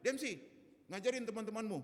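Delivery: high, loud mock teacher's yell; shouted order. Sleepy teacher shouting at pupil to teach classmates, yelling. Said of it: "Langsung dia teriak".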